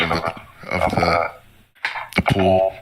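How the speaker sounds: nervous, short of breath; trailing off, breath running out; paper bag breathing. Real, not acted. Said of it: "I'm actually, uh, hyperventilating now".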